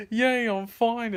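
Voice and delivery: high, loud, drawn-out cheer; mock celebration. Free of the dog at last, celebrating high and loud. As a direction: cheer with short-lived relief. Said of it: "I celebrated for two seconds".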